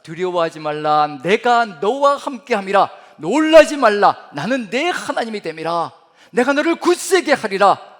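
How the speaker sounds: loud, slow proclamation of the verse; solemn scripture reading. Shown as a demonstration. Pastor reading Isaiah to the congregation, loud slow proclamation. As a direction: proclaim each line slowly and forcefully. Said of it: "다시 한번 제가 읽어봅니다".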